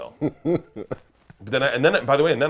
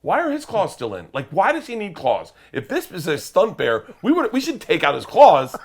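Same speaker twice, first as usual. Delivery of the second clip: panicked thought; 8 semitones higher, 6 dB louder than usual. Retold or imitated. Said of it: "my first thought was".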